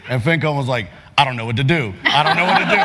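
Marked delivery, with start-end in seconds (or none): 1.2-2.8 mock panic. Imitating colleague as character sprints screaming, mock panic. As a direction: imitate a flustered colleague, rising on the repeat.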